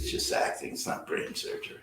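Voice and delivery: very soft, understated retold remark; offhand dismissal. Quoting Mitchum shrugging off acting, quiet and offhand. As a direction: toss it off almost under the breath.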